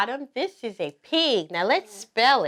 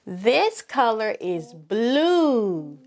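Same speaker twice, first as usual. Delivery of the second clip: slow, clear classroom voice; pretend teacher; slower than usual. Mom playing teacher asks the pretend class to say each color. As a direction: model each color word for little kids.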